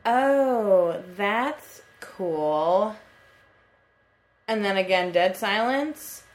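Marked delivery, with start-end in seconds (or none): 0.0-2.9 drawn-out, hesitant mock politeness; imitated awkward response. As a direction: imitate an uneasy, stretched-out polite reply. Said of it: "her response was".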